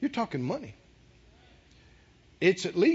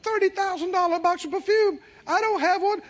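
mock doubtful congregant; 8 semitones higher than usual.

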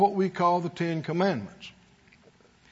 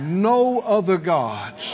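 slow, drawn-out line to be echoed; leading group recitation; much slower than usual. Shown as a demonstration. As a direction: stretch each word for the crowd to repeat. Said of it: "Everybody said out loud".

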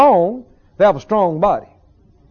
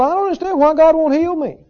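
higher, whiny complaint to God; hammed-up upset believer, pitched up; upset whining; 8 semitones higher than usual. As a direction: act out a frustrated believer griping at God. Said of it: "I can just get upset and go".

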